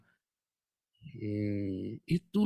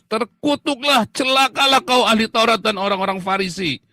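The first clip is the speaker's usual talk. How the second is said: Jesus condemning; 6 semitones higher, 6 dB louder than usual. Retold or imitated. Voicing Jesus cursing the Pharisees, loud condemnation. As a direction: thunder it like a prophet cursing. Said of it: "Teriak sekeras-kerasnya kayak Tuhan Yesus".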